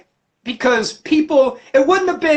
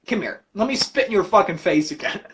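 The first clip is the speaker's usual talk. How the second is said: casual Jesus; 3 semitones lower, 4 dB quieter, faster than usual. Retold or imitated. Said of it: "Jesus is like".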